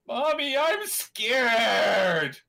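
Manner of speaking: put-on high, frightened little kid; scared kid voice. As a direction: whine it like a scared child. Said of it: "then going".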